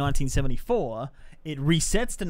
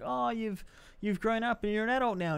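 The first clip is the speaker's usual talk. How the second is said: a hint of a swooning girl, higher; breathy, impressed girl voice, lightly done; lightly voiced girl; 7 semitones higher, 6 dB quieter than usual. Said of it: "the girls that had a crush on him's like".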